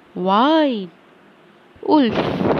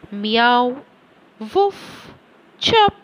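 imitating animal sounds; slower than usual. Shown as a demonstration. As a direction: mimic a cat, then a dog, then a bird.

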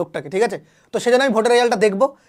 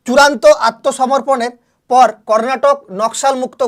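slow, louder reading that leans on চূড়ান্ত; emphatic headline read; 5 dB louder, slower than usual. Shown as a demonstration. Teacher stressing a headline for exam students, slow and loud. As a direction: announce the key fact slowly for the exam.

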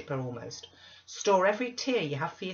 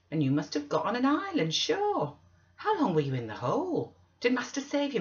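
high, loud, animated servant voice; chattering Zillah; 5 semitones higher, 5 dB louder than usual. Acted. Zillah questions Missus Dean about the marsh, chattering loudly. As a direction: gossip loudly, swooping up on the questions.

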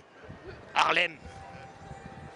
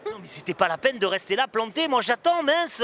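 mock angry scolding; 3 semitones higher, 4 dB louder than usual. Fake husband scolding.

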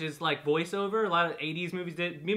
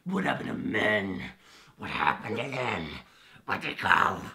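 low gritty announcer voice, much lower; deep gruff voice; 12 semitones lower than usual. Retold or imitated. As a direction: growl it like a macho ad narrator. Mocking the gruff narrator.

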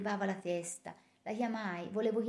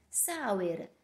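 barked name. A narrator's reading. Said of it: "eruppe nella stanza".

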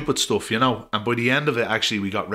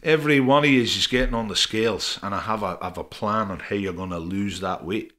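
put-on poxy Scottish accent. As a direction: put on a bad Scottish accent for the coach's team talk. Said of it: "it's a really poxy Scottish accent I'm gonna do".

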